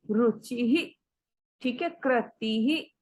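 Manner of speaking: रुचि ही with the visarg as a light ही; slow, echo the ई as ही; right way. Shown as a demonstration. Teacher demonstrates visarg after ई. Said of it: "ऐसे बोलना है".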